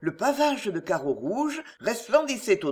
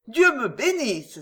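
a bright, higher cry with a chuckle in it; good-humoured exclamation; 5 semitones higher, 4 dB louder than usual. Acted. Sally in the kitchen exclaiming at the customers' calls, good-humoured. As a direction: exclaim it cheerfully, half laughing. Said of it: "s'exclama Sally avec un rire de bonne humeur".

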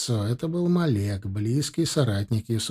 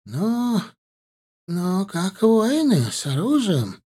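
faltering; 7 semitones higher, slower than usual. Acted. Shepherd faltering.

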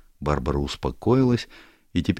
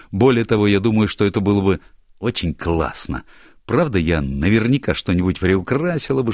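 higher, brighter-voiced girl, teasing; lively young woman; 4 semitones higher, 3 dB louder than usual. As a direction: play Barbara breezing into the room, higher and louder. Barbara voiced by narrator.

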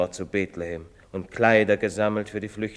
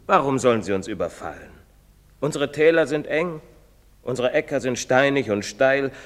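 louder, rising sermon voice; impassioned preaching; 4 semitones higher, 5 dB louder than usual. Acted. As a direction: preach it with swelling fervour. Priest preaches about poor land.

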